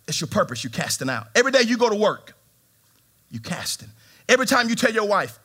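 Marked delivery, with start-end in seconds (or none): 3.3-3.9 breathy whispered aside. Real, not acted. Preacher whispering to the church about casting. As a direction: drop to a whisper.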